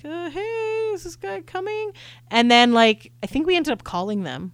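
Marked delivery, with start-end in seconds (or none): 0.0-1.9 lightly raised, soft, polite ask; sweetly impatient check-in; polite text quote. Retold or imitated. To the tour company about the late driver, politely raised.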